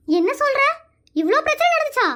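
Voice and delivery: shocked surprise. Acted. Woman hears how the girl was forced to marry, shocked and high. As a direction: gasp it out in disbelief. Hears the girl's full story.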